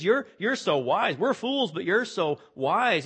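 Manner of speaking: mock them gently; sarcastic. Paul mocking the Corinthians' wisdom, sarcastic. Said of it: "a tinge of sarcasm here".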